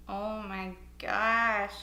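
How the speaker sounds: eyes watering, slow and breathy; talking through watery eyes; teary. Real, not acted. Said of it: "my eyes are watering".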